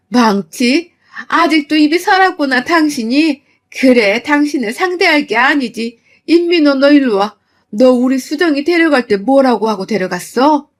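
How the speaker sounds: loud furious confrontation; angry demand. Retold or imitated. Mother ordering the husband over, angry and loud.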